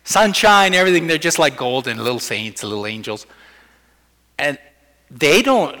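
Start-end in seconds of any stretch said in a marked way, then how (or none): 0.0-2.9 gushing. Retold or imitated. Gushing over toddlers' easy forgiveness.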